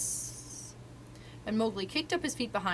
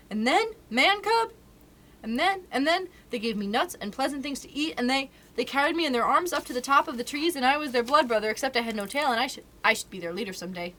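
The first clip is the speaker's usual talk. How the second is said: eager; 5 semitones higher, 4 dB louder than usual. Acted. Mowgli gushing about the monkeys.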